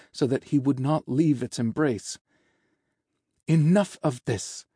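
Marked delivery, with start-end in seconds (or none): 3.5-4.7 higher-pitched, impatient order; exasperated command. Acted. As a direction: put a stop to it firmly. Healer loses patience with patient.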